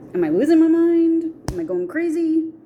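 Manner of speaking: high-pitched exasperated questioning; mock freak-out. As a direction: wonder aloud if you're cracking up. Freaking out, questions own sanity.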